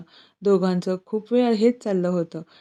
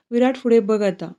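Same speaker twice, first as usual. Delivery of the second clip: teasing. Acted. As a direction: tease him lightly with a grin in the voice. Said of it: "चिडवतच हसत बोलली". (चिडवत हसत बोलणे)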